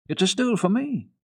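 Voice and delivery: put-on high, wondering child's voice; a small girl, thrilled at her gift; little girl voice. Heidi telling grandfather what the stool is, high child voice.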